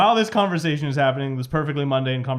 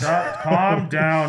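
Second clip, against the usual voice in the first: calling out; much slower than usual. Acted. Captain calls to raging co-pilot.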